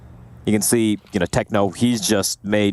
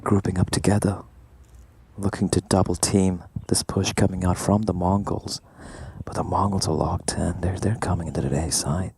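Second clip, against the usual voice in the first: sultry narrator; 4 dB quieter than usual. Pretend. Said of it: "give me some more seduction".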